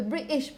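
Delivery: "British" with a throat stop replacing the T; glottal stop. Shown as a demonstration. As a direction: cut the middle T of "British" in the throat. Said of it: "is something like that".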